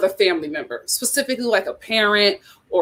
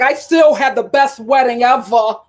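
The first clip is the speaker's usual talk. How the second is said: mock bride; 4 dB louder than usual. Bride quoted, disappointed but defiant.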